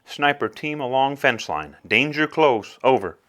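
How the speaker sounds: even radio call, danger close; calm radio fire call. Acted. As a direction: keep it level on the radio.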